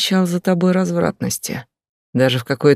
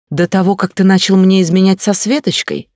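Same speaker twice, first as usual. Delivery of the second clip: sharp, raised comeback; angry retort; 5 semitones higher, 4 dB louder than usual. Acted. Wife hurling his affair back at husband, angry. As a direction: throw it back at him, higher and louder.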